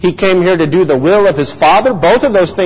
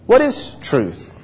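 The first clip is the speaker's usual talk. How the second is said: higher, slow, sincere question; startled, sincere; 4 semitones higher, 4 dB quieter, slower than usual. Shown as a demonstration. Preacher tries Pilate's question another way, startled and sincere. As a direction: ask it softly, taken aback and truly wanting to know. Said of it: "a sort of startled, sincere question".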